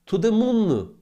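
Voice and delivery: a hint of a hyped-up banker, high and loud; lightly voiced fund manager cheering; mock hype. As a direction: mimic the moon-shot hype. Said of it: "talking about".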